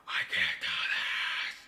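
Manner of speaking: slow, pressed whisper-shout of defeat; strained half-shout. Real, not acted. Painter giving up on the painting, slow strained whisper-shout. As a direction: push it out in exasperation, very slow. Frustrated breakdown over painting.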